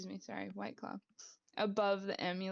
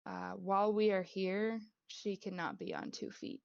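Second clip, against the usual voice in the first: gentle fairy voice. Acted. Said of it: "she just says".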